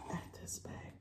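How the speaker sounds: hushed, breath-only wonder; awed whisper. Real, not acted. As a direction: drop to a whisper in amazement. Awed by the new bag.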